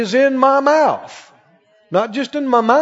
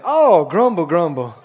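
mock grumbling; 3 semitones lower than usual. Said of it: "it's raining".

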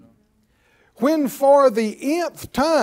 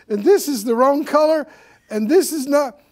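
higher, fussy complainer act; mock griping; 4 semitones higher, 4 dB louder than usual. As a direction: whine about it, playing the chronic complainer. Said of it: "many people are used to griping".

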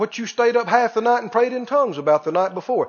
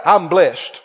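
bold declaration, spoken out loud; loud confession; 3 semitones lower, 5 dB louder than usual. Shown as a demonstration. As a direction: declare it loud to the whole house. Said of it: "Speak it out loud".

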